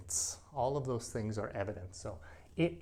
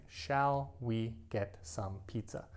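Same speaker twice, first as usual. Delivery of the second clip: slow, careful textbook phrasing; slow formal suggestion; slower than usual. Shown as a demonstration. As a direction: stretch the question out formally. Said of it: "Now, I never speak like this".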